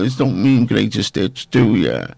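lightly affected playful voice; a hint of a mock character voice; put-on silly voice. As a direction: tease in a slightly put-on voice. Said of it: "talking in this voice".

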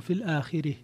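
الآخرة ending in a tilted "e" sound, "al-aakhireh"; Kisai's pausal reading. Shown as a demonstration. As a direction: tilt the last vowel of الآخرة from a toward e. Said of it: "وكذلك لو وقف عليها كسائي".

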